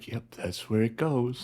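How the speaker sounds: soft mutter under the breath, barely aloud. Putting a wrench back in the tool kit: muttered under breath. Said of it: "Just under my breath".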